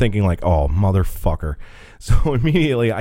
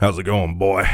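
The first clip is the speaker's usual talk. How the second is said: put-on burly backwoods hillbilly man voice. Describing a guy from a work phone call, backwoods hillbilly guy voice. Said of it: "burly fucking backwoods hillbilly guy".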